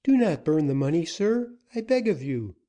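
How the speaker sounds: woman desperately pleading with Dick; begging cry. Acted. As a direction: beg him quickly to spare the money. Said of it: "cried the young woman".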